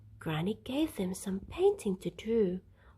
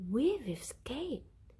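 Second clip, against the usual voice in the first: with a smile; 5 semitones higher, slower than usual. A narrator's reading. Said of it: "said Mister Large with a smile".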